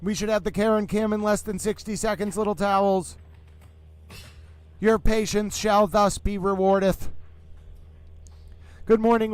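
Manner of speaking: a hint of an old-time sportscaster, grand and declaiming; Howard Cosell mode. Host greets his towel friends while waiting for the jurors, in a lightly done grand announcer voice. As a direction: greet the fans like a ringside broadcaster. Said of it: "Howard Cosell towel mode".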